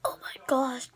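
puckered, straining through sourness; eating sour candy. Real, not acted. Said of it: "It is so sour".

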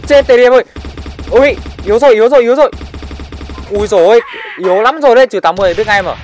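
loud, high, heated mid-fight yelling; game callouts shouted in the heat of battle; excited shouting. Real, not acted. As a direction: yell it out as the fight turns. Firefight excitement.

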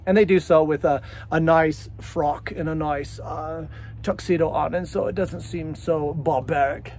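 muddled put-on upper-crust accent; made-up accent. Describing diners in frock and tuxedo, improvised snooty accent. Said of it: "Sorry, I don't know what that accent was".

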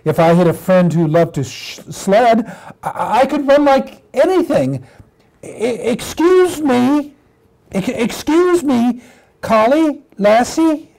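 high, stammering puppy voice; excited little puppy. Acted. Puppy timidly hails collie by the sled, stammering puppy voice. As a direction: stammer with eagerness as a small puppy. Plays puppy trembling with joy.

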